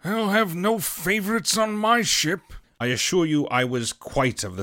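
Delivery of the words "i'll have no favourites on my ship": higher, pointed remark; captain speaking loudly. A narrator's reading. Captain declares to the doctor, pointedly loud. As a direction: say it so the boy hears. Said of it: "quite loudly to the doctor".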